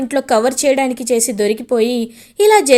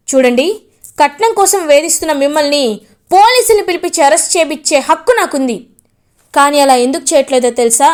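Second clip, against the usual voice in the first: angry scolding; 3 dB louder than usual. Acted. Gagan scolds in-laws.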